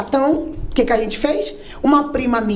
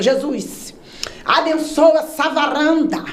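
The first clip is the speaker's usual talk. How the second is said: mock preacher prayer; 3 semitones higher, slower than usual. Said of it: "Ele começou".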